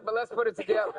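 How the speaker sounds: laughing through the words. Real, not acted. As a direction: give in with a laugh. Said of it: "I'm afraid to say".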